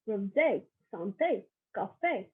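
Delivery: "Rosé, santé, cafe" with a stressed "ay" ending; French accent aigu. Shown as a demonstration. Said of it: "to a higher pitch at the end".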